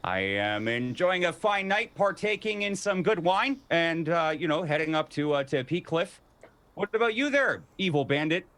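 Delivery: high, loud, tipsy boasting; tipsy guard. Acted. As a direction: swagger up high with wine. Guard describes his night.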